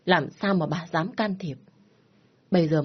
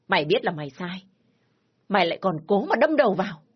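furious tirade; 3 semitones higher than usual. Acted. Father scolding his crying daughter, furious. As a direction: rant at her, sharper each line.

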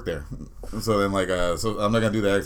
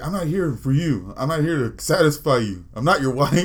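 higher, slower, mounting indignation; mock exasperation, each phrase more forceful; imitated upset worker; 5 semitones higher, 3 dB louder than usual. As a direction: act out a fed-up employee, building to the last words. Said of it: "the guy got upset about something".

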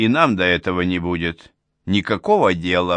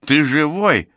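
higher-pitched, gladly surprised question; delighted relief; 6 semitones higher, 3 dB louder than usual. A narrator's reading. Old woman finds her neighbour at the table, delighted relief. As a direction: exclaim with relief, voice lifting. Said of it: "обрадовалась Татьяна Никитишна".

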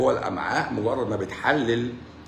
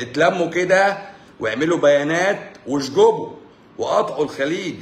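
mock rallying call; 4 semitones higher, 5 dB louder than usual. Mockingly urging pharmacists to organize.

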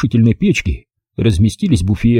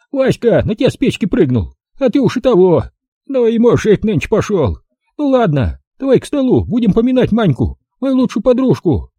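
put-on higher, brisk old-woman voice; old village granny; 11 semitones higher than usual. Old granny greeting the city visitor, high old-woman voice. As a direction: voice the feisty village grandmother. Granny mocking then toasting.

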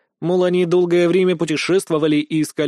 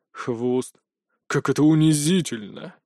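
Anubis, humiliated; slower than usual. Acted. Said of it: "сморщив лицо, выдохнул Анубис".

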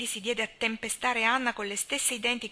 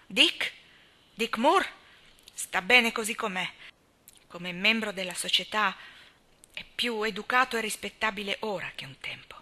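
much higher and louder, scornful; indignant old spinster; 3 semitones higher, 7 dB louder than usual. A narrator's reading. Miss Cornelia scorning Dick Moore to Anna, loud and higher. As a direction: rail against the drunkard.

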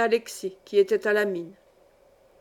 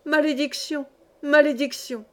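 a rising cry, higher each time; madwoman's curse; 4 semitones higher than usual. Acted. Mad widow cursing the mine, rising cry. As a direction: hurl the curse at the mine, building. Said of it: "s'écria-t-elle".

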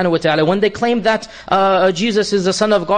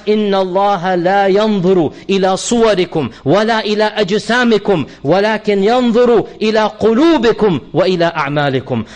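brisk melodic Arabic recitation of the verse; Quran recitation; much faster than usual. Acted. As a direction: chant the ayah in tajweed style. Quotes hadith in Arabic.

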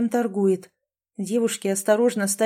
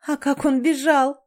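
laughing; 6 semitones higher, 4 dB louder than usual. Acted. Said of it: "смеялась Тамрета".

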